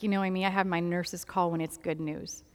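low, soft retelling of bad news; understated imitation of a sorrowful doctor; near-tearful doctor. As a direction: break it gently, voice dropped. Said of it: "she's almost crying".

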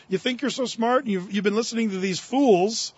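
touch of exasperation, acted; mock irritation, rising on the last line; mildly irritated. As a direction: voice Paul getting a bit ticked. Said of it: "do you sense Paul's just a little irritated here?".

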